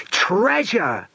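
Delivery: a high shout of treasure; all four cry out at once; shouted together. Acted. Children to each other finding the map, joyful shout. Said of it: "the four shouted".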